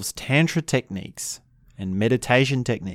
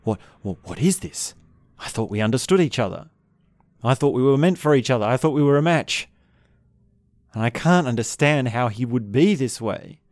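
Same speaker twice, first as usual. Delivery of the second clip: mild mock panic; 2 semitones higher than usual. Partner realizing they are not the same, mildly panicked. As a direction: act out a touch of quiet panic, quickening midway. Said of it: "there can be a quiet panic to that".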